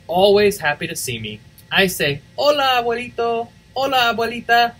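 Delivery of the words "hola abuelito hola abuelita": put-on higher eager child voice; child's greeting. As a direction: greet them like a happy little girl.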